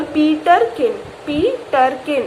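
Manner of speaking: पीटर किन split slowly into Pee-ter-kin; teacher's slow, segmented demo of पीटर किन; stressed syllables. Shown as a demonstration. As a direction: lean on each syllable of पीटर किन so the T stands out. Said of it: "जिस पे आप जोर दे रहे हो".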